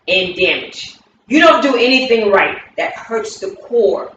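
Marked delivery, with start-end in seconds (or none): 1.3-2.6 a touch louder, cutting accusation; hurtful critique. Shown as a demonstration. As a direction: throw it at them like a wound. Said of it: "if I was to do a movement".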